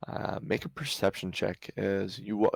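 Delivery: ordinary talk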